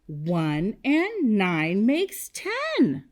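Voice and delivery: slow, word-by-word recital; leading choral repetition. Shown as a demonstration. Teacher leading kindergartners to say it with her, slow choral pace. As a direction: space out each word so all can join. Leads class in saying number sentence.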